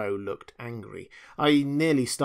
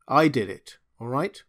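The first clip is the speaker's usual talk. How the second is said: voice cracking; 3 semitones higher, 6 dB louder than usual. Acted. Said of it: "My voice cracked".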